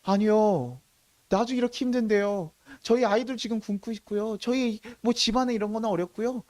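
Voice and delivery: mildly whiny mock objection; acted protest. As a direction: plead hardship as someone declining a request. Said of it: "그들이 얘기하는 거예요".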